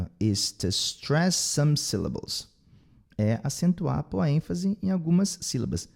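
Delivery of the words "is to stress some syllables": "to" reduced to "tuh" before "stress"; weak TO. Shown as a demonstration. Teacher models the sentence for learners, weak "to". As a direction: pass lightly over "to", land on "stress". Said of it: "o to vai ser fraquinho".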